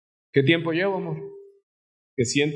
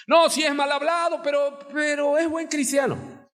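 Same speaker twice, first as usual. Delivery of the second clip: mock excuse maker; 10 semitones higher than usual. Church member excusing a brother.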